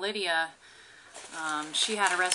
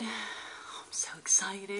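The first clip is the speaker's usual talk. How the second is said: excited whisper; slower than usual. Real, not acted.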